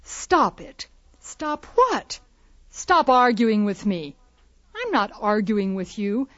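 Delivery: acted argument. Shown as a demonstration. Teacher acting out argument chant.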